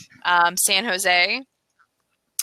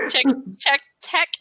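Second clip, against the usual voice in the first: lightly put-on Chicago accent; 2 semitones higher than usual. Shown as a demonstration. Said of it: "that's the voice. That's the, that's the accent".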